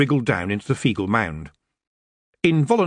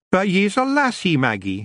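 high Scots pixie, gently protesting; a dad fretting at his girl; worried Rob; 9 semitones higher than usual. Acted.

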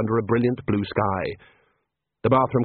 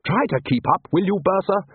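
higher, mildly weary reproach; 8 semitones higher than usual. A narrator's reading. Ridcully chiding the lagging Bursar, mildly weary. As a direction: chide with a touch of weariness. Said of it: "said Ridcully wearily".

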